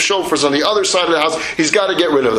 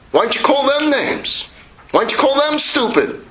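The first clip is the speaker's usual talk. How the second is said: higher, pointed questions; bitter challenge; 6 semitones higher than usual. Acted. Son demands why the pros get no insults, bitter. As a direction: throw it back at him.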